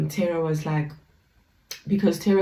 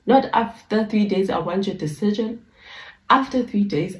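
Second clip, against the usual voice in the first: louder, higher commanding king; stern demand; 5 semitones higher, 4 dB louder than usual. Retold or imitated. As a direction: hammer the deadline home. King lays down his deadline.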